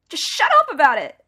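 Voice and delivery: loud, high snap; snapping. Acted. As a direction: cut him off sharply. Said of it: "I snapped".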